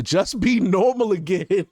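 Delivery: laughing through the words; cracking up at "normal". Real, not acted. Commentator mocking the party for needing to act normal, laughing.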